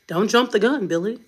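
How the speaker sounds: lightly mimicked white parent; white parent imitation. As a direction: playfully imitate a white parent cautioning a child. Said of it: "that's how the white palm people, they be like".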